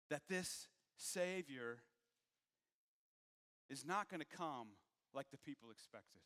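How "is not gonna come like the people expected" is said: usual speaking voice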